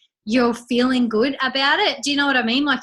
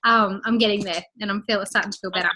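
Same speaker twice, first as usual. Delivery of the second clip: out of breath; faster than usual. Real, not acted. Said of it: "congested and a little bit out of breath".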